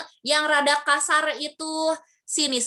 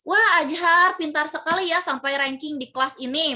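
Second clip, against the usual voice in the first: lightly raised fake admiration; ironic praise; 2 semitones higher, 4 dB louder than usual. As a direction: praise him sweetly while poking fun. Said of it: "itu termasuk ke dalam majas ironi". (guru memuji Ajar secara ironis, nada manis pura-pura)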